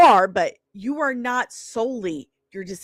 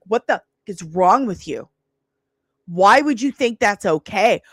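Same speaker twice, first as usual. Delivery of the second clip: retold angry husband; 5 dB louder than usual. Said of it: "lost their minds".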